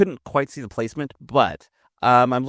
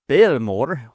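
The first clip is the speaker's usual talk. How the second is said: Scottish accent; 3 semitones higher, 5 dB louder than usual. Shown as a demonstration. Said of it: "in a Scottish accent, I'd prefer".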